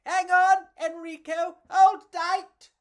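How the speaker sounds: high, loud shout to hold on; high bug shout. Acted. Pedro shouting to Enrico while whizzing through airport, loud high. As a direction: yell over the rush. Clinging to luggage in flight.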